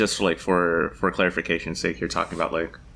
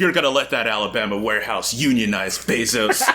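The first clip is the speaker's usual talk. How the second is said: robot voice; 3 semitones higher, 4 dB louder than usual. Retold or imitated. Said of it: "he has, like, a robotic voice".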